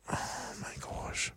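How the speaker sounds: breathless whisper, high and slow; whispered aside. Real, not acted. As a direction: gasp it under the breath. Aside at racist record.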